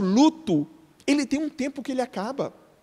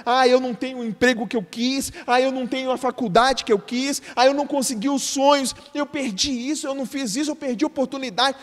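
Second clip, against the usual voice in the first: mock complaint.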